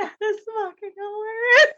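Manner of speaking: crying with laughter; laughing. Real, not acted. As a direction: squeak it out through laughter. Laughing at the nickname.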